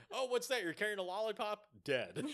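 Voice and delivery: a cop hammed up high and loud; a jokey trigger-happy cop, loud and high; mock cop. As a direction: bark it like a cop who shoots first. Mocking trigger-happy cops.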